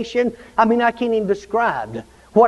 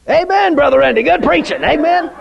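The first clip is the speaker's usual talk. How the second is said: amening himself; 4 semitones higher than usual. Pretend. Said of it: "I sat down and amen myself".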